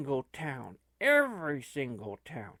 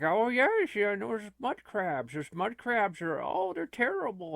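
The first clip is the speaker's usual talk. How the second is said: lightly voiced game NPC chatter; video-game NPC; 4 semitones higher than usual. Player imitates an NPC prattling about mud crabs, lightly put-on. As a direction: parrot a stock NPC line. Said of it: "that's just all he says to you every time".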